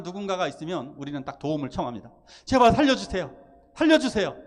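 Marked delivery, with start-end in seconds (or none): 2.4-4.4 louder, higher plea of a wounded man; a first loud cry to be rescued; pleading cry for help. Retold or imitated. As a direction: beg a passerby to save you, raising the voice. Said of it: "우리도 그러겠죠".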